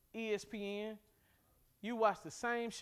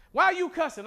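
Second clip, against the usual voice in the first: accusing question; 9 semitones higher, 13 dB louder than usual. Retold or imitated. Mock argument about cussing.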